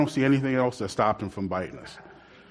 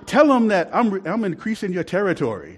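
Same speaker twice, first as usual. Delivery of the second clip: imitating comedian; 5 semitones higher than usual. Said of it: "He says".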